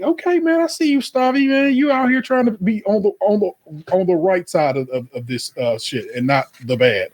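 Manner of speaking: high, teasing mock voice. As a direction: sing it up high like you're ribbing him. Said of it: "I was like".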